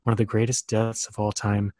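somber low announcer voice; deep mock-serious intro voice. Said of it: "talking in that low voice again".

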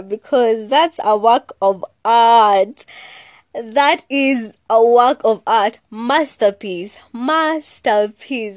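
slow, loud, grand proclamation; haughty art critic; slow diva boast. Acted. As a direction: savour every word like a diva. Boasting about her pictures.

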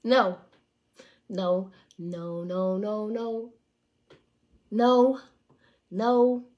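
loud flat refusals; firm no. Shown as a demonstration. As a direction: bark no like a shut door. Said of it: "need to tell these niggas, no".

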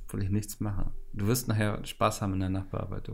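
clipping cheap mic sound; distorted, peaking usb microphone. Real, not acted. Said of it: "mein Mikrofon ist ja gerade voll so am Ausschlagen".

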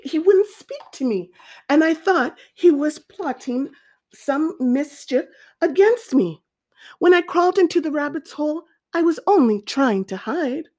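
a hint of an aggrieved snake; python pleading innocence. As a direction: plead your case to the king.

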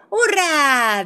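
vítor agudo y fuerte; hurra de Peppa. A narrator's reading. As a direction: celebra alargando el grito. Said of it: "dice Peppa". (júbilo infantil, en voz alta)

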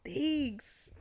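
mock-polite thanks, mildly disgusted. Woman answers a stranger praising her feet, mildly disgusted. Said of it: "I was really disgusted".

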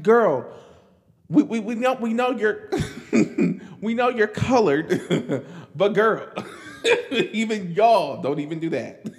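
high, laughing teasing quote between giggles; laughing mock scolding. Imitating people teasing her at the show, laughing. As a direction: giggle through the fake scolding. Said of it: "It's like".

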